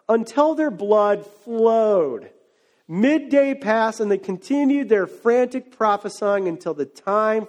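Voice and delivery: slow, drawn-out narration; solemn storytelling, words held long; dramatic scripture reading. A narrator's reading. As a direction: read the verse with heavy, stretched emphasis.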